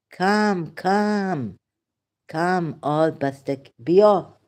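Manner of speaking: high, loud calling out to family; imitating a Bastaki relative. Imitating a relative calling the family to come and sit, loud and high. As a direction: call the relatives over like an eager aunt.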